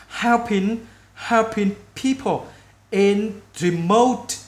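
very slow teaching diction; slow, word by word. Shown as a demonstration. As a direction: separate each word with pauses for repeating. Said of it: "mình nói chậm từng chữ để các bạn phát âm cho đúng". (nói chậm từng chữ)

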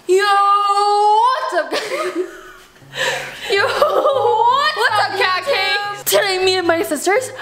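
high, bubbly YouTuber greeting; cutesy vlogger voice. Retold or imitated. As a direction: squeal it like a teen influencer. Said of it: "you gotta be like".

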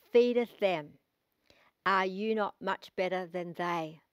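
solemn scripture read from the pulpit. Acted. Reads scripture aloud.

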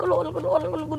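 usual speaking voice

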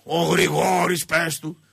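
slow, drawn-out nonchalant mumble; unbothered, cigarette in mouth. Retold or imitated. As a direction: imitate a laid-back man talking round a cigarette. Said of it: "με το τσιγάρο, έτσι".

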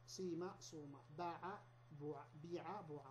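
صيم with long i and صوم بوع with long u, sounded apart; slow careful صيم صوم بوع بيع; pure kasra or damma. Shown as a demonstration. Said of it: "بالكسر الخالص أو الضم الخالص".

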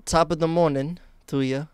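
attempted British greeting that comes out Irish; mock Irish accent. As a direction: put on a hammed-up Irish lilt. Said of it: "That's Irish".

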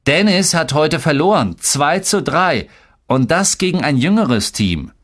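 high-pitched little-brother telltale; smug high-voiced snitching; tattling. A narrator's reading. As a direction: tell on your brother in a high kid's voice. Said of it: "petzte Tolga".

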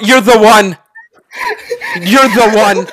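loud, laughing excited cry. Real, not acted. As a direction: cheer it through laughter.

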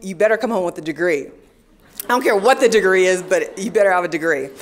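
quick, firm fatherly warning; a hint of a stern dad laying down the law. Father telling his daughter to come home with a degree, firm and fast.

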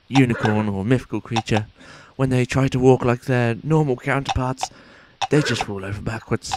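lightly put-on posh sports commentator voice; understated mock commentator accent. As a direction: call it like a stuffy TV race announcer. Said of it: "this accent is very difficult to keep up".

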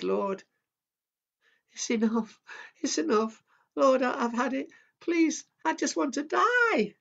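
high, loud anguished cry to the Lord; a man at the end of his rope crying out to God; despairing wail. Acted. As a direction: wail it out, begging to die. Elijah's despairing prayer voiced.

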